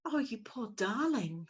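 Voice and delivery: soft, slow and kindly; sweet young voice. Acted. Young lady soothing the fallen owlet. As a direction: comfort a fallen chick. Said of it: "said a sweet young voice".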